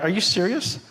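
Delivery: high, disbelieving mock instructor; an instructor not believing his eyes; incredulous instructors. Instructors mocking the failed drill, disbelieving. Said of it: "the instructors are like".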